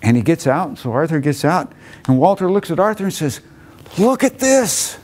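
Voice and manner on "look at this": higher, eager presentation; proud showing off. Retold or imitated. Walter presenting the empty land to Arthur, proud. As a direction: show it off proudly.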